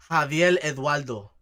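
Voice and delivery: put-on Puerto Rican accent, "Javier Eduardo" with the R's turned to L's: "Javiel Edualdo"; imitating a Puerto Rican saying "Javier Eduardo" with L for R. Mocking how Puerto Ricans say the name, in a light Puerto Rican accent. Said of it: "Or Puerto Rican, they say".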